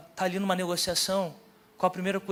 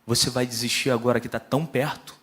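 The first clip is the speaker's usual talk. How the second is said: lightly voiced inner voice, lowered; a low, challenging question from within; Deus; 4 semitones lower, 4 dB louder than usual. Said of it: "veio uma voz no meu coração".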